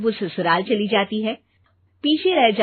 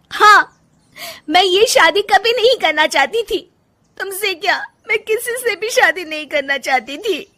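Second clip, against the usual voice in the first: angry outburst; 10 semitones higher, 5 dB louder than usual. Acted. Rajni bursts out at husband.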